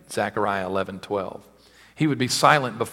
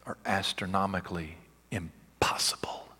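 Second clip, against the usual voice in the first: whisper; 2 semitones lower, 7 dB quieter than usual. Acted. Awe at the odds.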